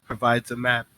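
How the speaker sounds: lightly voiced wary schemer, measured with pauses; a hint of a composed character weighing a trap; woman in the tub. Woman warns Tanari of a possible test, lightly voiced deliberation. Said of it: "uh, she says".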